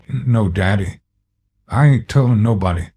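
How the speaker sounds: blurting a scared promise; frightened child. Acted. Beaten child promises silence.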